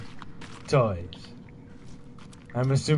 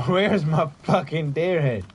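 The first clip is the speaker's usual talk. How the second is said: louder repeat, calling out; yelling across the room; 3 semitones higher, 4 dB louder than usual. Real, not acted. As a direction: shout it to the whole room.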